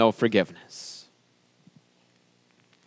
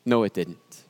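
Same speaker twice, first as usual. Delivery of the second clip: the Lord ends the argument tenderly; soft final denial; 7 semitones lower, 6 dB quieter than usual. Acted. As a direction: lower and softer, settling it gently. Lord's final gentle denial.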